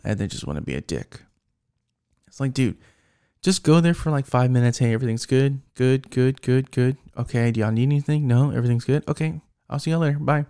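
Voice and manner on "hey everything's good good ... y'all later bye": quick, perfunctory supervisor rounds; brisk mock check-in. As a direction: rattle it off like a hurried drop-by. Acts out a supervisor's brief check-in.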